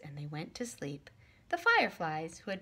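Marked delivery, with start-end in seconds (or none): 0.0-1.1 soft bedtime whisper. Acted. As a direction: hush it like a lullaby. Bedtime ending of story.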